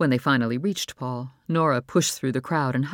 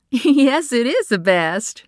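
much higher, louder, slow laughing reply; 10 semitones higher, 8 dB louder, slower than usual. Acted. Mother laughing at son's good news, delighted.

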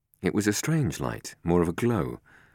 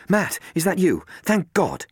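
Aunt Jane; 14 semitones higher, 5 dB louder, slower than usual. A narrator's reading. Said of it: "It was Aunt Jane".

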